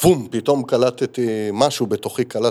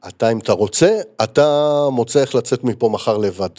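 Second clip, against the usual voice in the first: retold stern ultimatum, a bit louder; retelling how he firmly told Reuven off; firm angry voice; 4 dB louder than usual. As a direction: lay down the law, firm and harsh. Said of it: "בקול מאוד, מאוד תקיף ו-, כועס".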